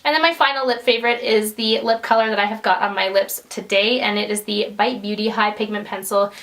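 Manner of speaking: hoarse, fading voice; a voice going raw and thin; losing voice. Real, not acted. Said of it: "Sorry, I'm losing my voice here".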